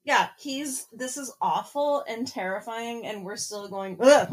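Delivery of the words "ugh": loud, mock-disgusted groan; exasperated ugh. Podcast host reacting to Raoul speaking, loud exasperated groan. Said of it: "whenever he speaks".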